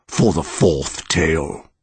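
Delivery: slow monster voice. Acted. Monster announces tale.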